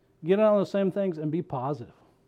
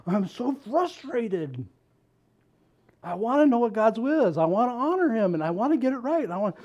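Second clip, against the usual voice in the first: mock frustrated pleading, a bit higher; frustrated questioning; 4 semitones higher than usual. Preacher imitating a believer stuck on God's will, mock frustration. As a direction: pile up the questions, lightly exasperated. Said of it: "in that moment of frustration going".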